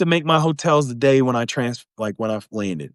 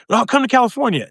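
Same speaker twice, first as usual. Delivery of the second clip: mock reply, higher; 7 semitones higher, faster than usual. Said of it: "They're like".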